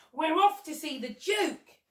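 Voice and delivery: high, drawn-out announcement; excited cry. A narrator's reading. Monkey announces the visit to the Duke, excited cry. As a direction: crow it slowly with glee. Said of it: "cried the monkey".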